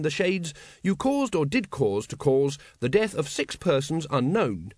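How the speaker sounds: formal constable cautioning the accused; earnest officer reading charges. Acted. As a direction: solemnly recite the charge sheet in full legalese. Carrot formally reads charges to dragon.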